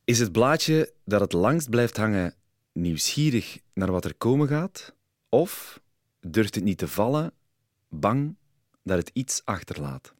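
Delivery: measured poem reading, pauses between phrases. Acted. Podcast guest offers host and listeners a little poem, measured recital. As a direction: read it as verse, letting each phrase hang.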